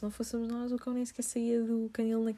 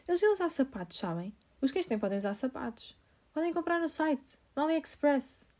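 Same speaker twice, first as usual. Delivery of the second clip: high, louder loopy stranger voice; imitating the woman; 6 semitones higher, 3 dB louder than usual. The stranger recommends dog shoes, high and loud. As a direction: rattle off the advice like the odd woman.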